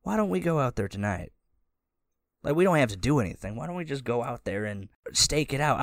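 a keen comrade talking the group into action; Smoke's voice. Acted. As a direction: egg your friend on, half laughing. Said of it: "and he says".

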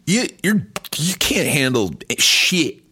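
high-pitched scolding impression; exaggerated, exasperated spouse putdown; mocking wife. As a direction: pitch it up and berate a baby of a husband. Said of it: "she's like".

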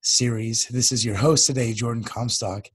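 hoarse, nearly gone voice; talking with a lost voice. Real, not acted. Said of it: "I've totally lost my voice".

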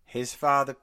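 put-on old Hollywood host with Tennessee twang; glamorous old Hollywood star by the campfire; Tennessee transatlantic accent. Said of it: "some weird Tennessee transatlantic accent".

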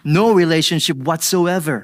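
firm, emphatic disowning; sworn denial. Retold or imitated. Peter swearing to his accusers, emphatic denial. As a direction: deny it as if under oath. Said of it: "invoke a curse on himself to swear".

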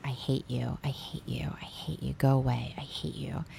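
hushed, breathy repeated whisper. Retold or imitated. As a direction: whisper it under your breath. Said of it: "you hear Lizzie whispering".

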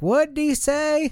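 high, slow, baffled voice; confused. Retold or imitated. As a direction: act totally lost. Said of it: "and you're like".

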